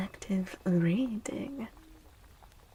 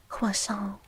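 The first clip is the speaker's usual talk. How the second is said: croissant as kwoh-sah in a put-on French accent; a playful bad French croissant; Croissant said the mock French way; shitty French accent. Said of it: "with a shitty French accent".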